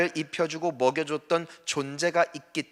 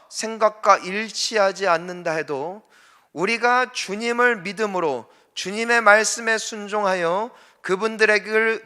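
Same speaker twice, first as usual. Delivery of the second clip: raised, higher-pitched sermon delivery; emphatic preaching; 5 semitones higher, 5 dB louder than usual. Real, not acted. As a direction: press each phrase home to the congregation. (높고 힘 있게 설교하듯)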